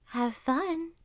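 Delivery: high, lightly voiced grin; lightly grinning fox. A narrator's reading. Fox seeing Kuzma off hunting, lightly grinning. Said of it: "grinned the fox".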